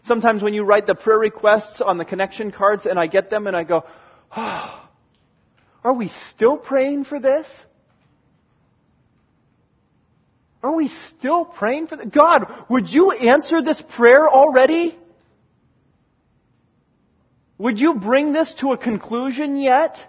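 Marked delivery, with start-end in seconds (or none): 4.4-4.9 weary sigh. Retold or imitated. Weary sigh at repeated requests. 5.8-20.0 mock-weary pleading, pitched up on the questions; exasperated praying, with a burst on "God"; exasperated plea. Retold exasperated reaction to requests.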